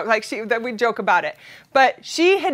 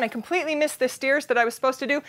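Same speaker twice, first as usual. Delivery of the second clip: ordinary talk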